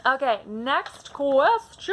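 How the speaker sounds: drawn-out, playful announcement; hyper. Real, not acted. Vlogger moving through a book tag she loves, real hyper excitement. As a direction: stretch the words out with hyper energy. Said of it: "I'm very hyper today".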